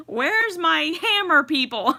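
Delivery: joking threat, hammed up; mock threat. Joking to the chat about a hammer, mock menace.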